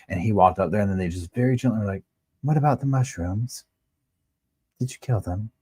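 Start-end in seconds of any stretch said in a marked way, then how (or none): 2.4-5.5 gentle questioning. Retold or imitated. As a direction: ask it ever so gently, like a kind interviewer. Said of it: "Just so gentle".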